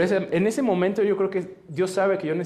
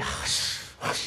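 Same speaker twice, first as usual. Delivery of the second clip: reluctant, breath-heavy "ay" sigh; exasperated sigh; 6 dB quieter than usual. Retold or imitated. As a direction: sigh as if you dread doing it. Reluctant groan while writing pledge. (suspiro de fastidio)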